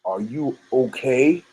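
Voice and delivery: low, slow quiet menace; slow it down into a quiet threat; menacing tone change. Retold or imitated. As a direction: mobster turns cold, asking low and slow. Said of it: "And then Kevin's tone changed".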